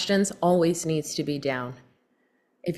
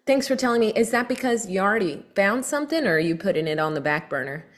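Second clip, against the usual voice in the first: start fast, end slow; 3 semitones higher, faster than usual. Shown as a demonstration. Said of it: "I purposefully start fast, but I end slow".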